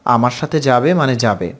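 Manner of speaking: usual speaking voice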